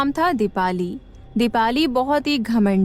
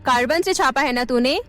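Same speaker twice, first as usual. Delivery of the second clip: suspicious teacher; 4 semitones higher, faster than usual. Acted. Arrogant teacher accuses the girl.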